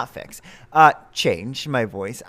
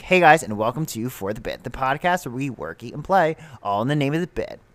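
podcast intro voice. Shown as a demonstration. Podcast host showing co-host how they first started, intro voice. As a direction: redo your first take of the show opening. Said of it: "when I first started, I was like".

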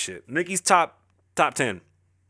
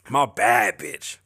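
slow, lower flirty purr; flirty drawl; 5 semitones lower, much slower than usual. Shown as a demonstration. Husband showing how he flirts with his wife, slow low purr. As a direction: savor each word to flirt. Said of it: "flirt with my wife a different way".

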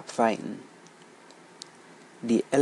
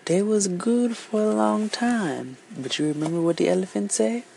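excited storytelling; 8 semitones higher than usual. Acted. Lively storyteller asks the children.

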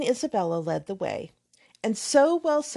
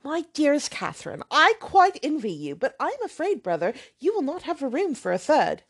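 much higher, fluttery and affected; gushing young lady; 4 semitones higher than usual. Acted. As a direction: fish for an invitation. Isabella gushes to her brother.

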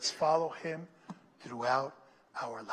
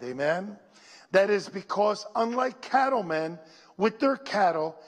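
preaching; 3 dB louder than usual. Acted. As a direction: preach it out to the church. Preaching at full force.

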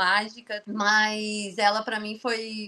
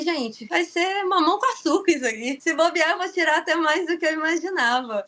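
cocky self-talk; 4 semitones higher, 3 dB louder than usual. Retold or imitated. Quoting overconfident self mid-race.

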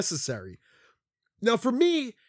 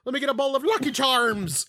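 mock Irish accent; 5 semitones higher than usual. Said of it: "I'm Irish".

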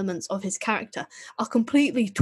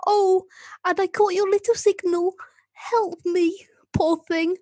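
higher, louder hammed-up Northern accent as the Doctor; Northern Eccleston accent; 9 semitones higher, 3 dB louder than usual. Co-host mocks the Dalek as the Doctor, hammed-up Northern accent. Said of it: "warm up my Eccleston accent".

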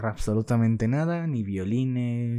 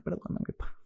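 whispered mock apology to his father; joking whisper; 8 dB quieter than usual. Real, not acted. Apologizing to his absent father for exposing him, whispered. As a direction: breathe the apology like a guilty aside.

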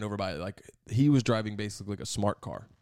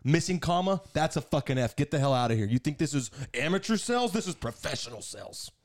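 mock angry professor; 3 semitones higher than usual. Acting out the harsh professor.

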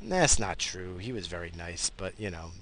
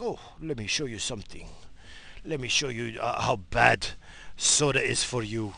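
a hint of a wise old grandpa; grandfather. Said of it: "He's like".

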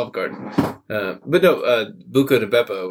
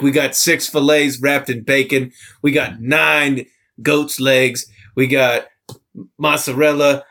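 a lightly put-on Italian accent, louder; hammed-up Italian accent, dragging the list; horrible Italian accent; 3 semitones higher, 4 dB louder, slower than usual. Mimicking a TikTok Italian dad in a bad Italian accent. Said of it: "That's a horrible Italian accent".

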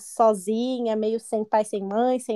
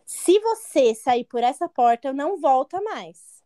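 louder, emphatic ultimatum; half-hearted re-enacted shout; 3 dB louder than usual. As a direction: imitate your own yelling, held back. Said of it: "aí eu gritando, obviamente". (imitando um grito, contido)

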